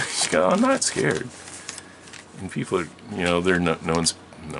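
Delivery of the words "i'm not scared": put-on high, loud kid's protest; loud childish comeback; indignant denial. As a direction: deny it hotly, like a teased child. Child denies being scared, retold.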